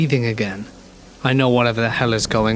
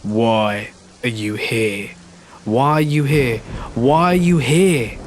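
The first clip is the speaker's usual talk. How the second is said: building to a scream; slower than usual. Acted. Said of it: "He screams".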